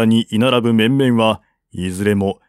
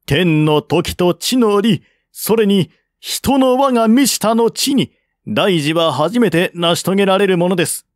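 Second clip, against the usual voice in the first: higher, measured lady's voice reasoning calmly; wise lady counseling; 7 semitones higher than usual. Acted. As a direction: lay out the argument like a patient noblewoman. Lady advises the generals at length.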